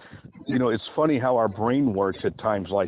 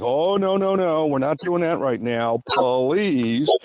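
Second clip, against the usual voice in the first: playful refusal; 3 semitones higher, slower than usual. Shown as a demonstration. Woman playfully turning down a man's sex talk. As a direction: laugh off his advance, lightly. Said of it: "in a playful way".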